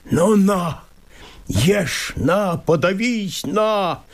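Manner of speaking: высокий, злой и надрывный голос; бросай слова с горькой злобой; злая горечь. Acted. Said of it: "прищурив глаза и опустив углы губ". (мужик в отчаянии бросает упрёки леснику)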